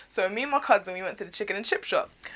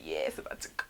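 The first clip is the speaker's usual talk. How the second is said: put-on hyped kids. Retold hyped cousins.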